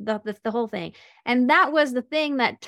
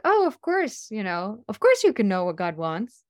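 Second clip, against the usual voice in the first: put-on sweet old rabbi. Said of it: "so sweet, super, super nice".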